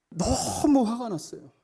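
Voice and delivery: ordinary talk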